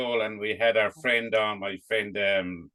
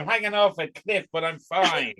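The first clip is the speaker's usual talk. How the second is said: mock carefree; 4 semitones higher than usual. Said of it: "You were grand".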